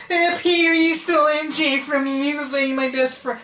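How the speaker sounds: high-pitched whiny brat impression; mocking, squealed cartoon whine; Harry. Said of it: "like, a whiny brat".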